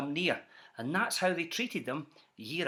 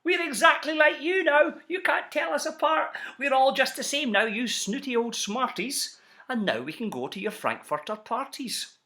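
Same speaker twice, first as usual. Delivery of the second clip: triumphant shout, higher and louder; gleeful yell; 7 semitones higher, 3 dB louder than usual. Acted. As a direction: crow at the snooty ones in victory. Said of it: "they yelled at the ones".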